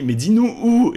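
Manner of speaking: high, loud insistent aunt; an aunt pressing her burning nephew, loud and high; loud pleading question. Retold or imitated. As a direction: urge him loudly to say where. Aunt demands where it hurts.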